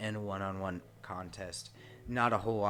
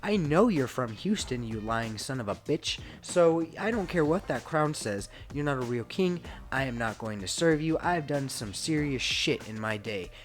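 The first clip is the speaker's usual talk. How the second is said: louder, higher, mock furious rant at the fake king; angry William Regal; 3 semitones higher, 4 dB louder than usual. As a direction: tell him off, fed up. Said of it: "But William Regal's like".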